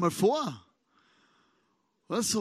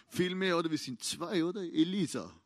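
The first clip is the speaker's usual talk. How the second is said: incredulous servant; 2 semitones lower than usual. Acted. Servant answers Elisa in disbelief.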